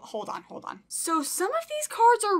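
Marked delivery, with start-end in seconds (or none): 0.0-0.8 breathless whisper. Real, not acted. Overwhelmed, catching breath.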